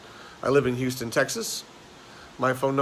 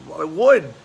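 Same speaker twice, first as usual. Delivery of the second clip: higher, louder protesting patient; raised-voice comic protest; joke's patient; 5 semitones higher, 8 dB louder than usual. Acted. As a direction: deliver the punchline as the exasperated brother, pitched up. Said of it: "The guy says".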